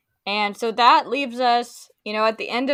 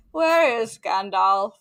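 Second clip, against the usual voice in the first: robot voice; 2 semitones higher, 5 dB louder than usual. Retold or imitated. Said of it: "he sounds like a robot".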